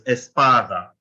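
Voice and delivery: espada with weight on the middle "pa"; stress on PA. Shown as a demonstration. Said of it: "You can hear the stress on the A".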